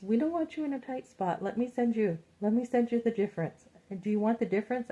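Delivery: high, sugary helpful rep voice; sweet customer service. Retold or imitated. Company rep offering to send the difference. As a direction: sweeten it like an eager service agent. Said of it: "she goes".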